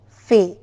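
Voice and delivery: "fe" said alone as a drawn-out first syllable; first piece of famous, "fe", held separately; isolated syllable. Shown as a demonstration. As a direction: sound out "fe" on its own. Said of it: "the first sound is fe".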